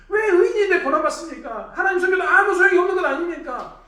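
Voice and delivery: loud, high complaint against God; indignant protest. Acted. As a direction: cry out at the unfairness, acted. 고난받는 사람의 항의를 재연. (억울해서 큰 소리로 항의하듯)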